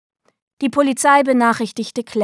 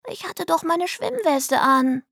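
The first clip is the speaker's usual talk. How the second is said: high, slow, sing-song explanation; exaggeratedly patient; 8 semitones higher than usual. A narrator's reading. Delly reassuring angry Ma, patient high little voice. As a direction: explain as if to a small child. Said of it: "so geduldig, als sei Clarice ein kleines Kind".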